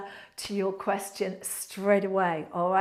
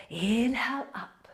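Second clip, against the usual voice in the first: yoga instructor cueing. Acted. Leads a yoga flow.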